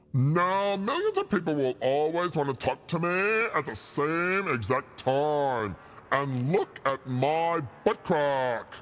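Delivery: deep voice. Going back to try the same lines again in another voice, deep voice. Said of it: "The deep voice is better".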